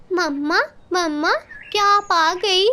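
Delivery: a lightly voiced small child, pleading; lost little boy begging his mother to speak; little child calling for mother. Abandoned baby crow pleading for his mother, lightly voiced.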